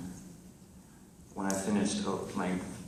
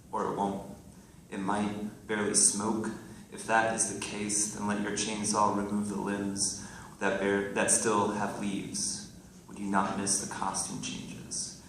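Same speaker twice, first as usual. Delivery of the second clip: measured poetry recital with deliberate pauses; poem reading. Acted. Poet reading to a live audience, measured recital. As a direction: read it out line by line as verse.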